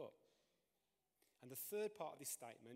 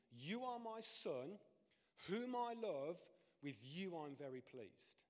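voice of God; 3 semitones higher, 3 dB louder, slower than usual. Acted. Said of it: "this voice saying".

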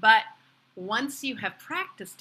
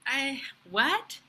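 baffled server; 4 semitones higher than usual. Acted. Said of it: "she says".

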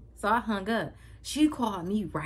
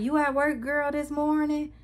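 talking weird; 10 semitones higher, 5 dB louder than usual. Retold or imitated. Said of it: "she called me talking hella weird".

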